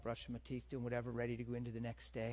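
ordinary talk

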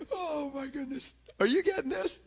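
high, delighted exclamation; overjoyed. Real, not acted. Preacher thrilled, asking the congregation if they follow. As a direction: bubble over with joy.

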